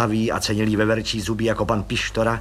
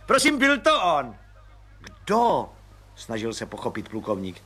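a high, eager little man's voice; high chirpy little agent; Pištora voice; 10 semitones higher than usual. Acted. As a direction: pipe it up like a cheerful small policeman. Pištora explains.

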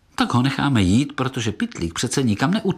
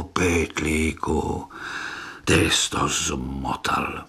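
low disappointed reproach; 6 semitones lower, 3 dB quieter, slower than usual. Acted. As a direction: drop to a low, slow, head-shaking "pytlíku". (zklamaně a tiše: pytlíku, ty jsi to zmotal)

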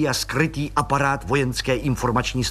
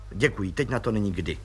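dry; 3 semitones lower, 5 dB quieter than usual. Acted. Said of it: "řekl podplukovník suše".

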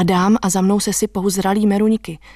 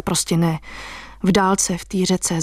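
ordinary delivery

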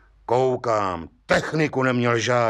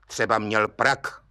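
unsure judge; 5 semitones lower than usual. Acted. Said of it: "mínil soudce nejistě".

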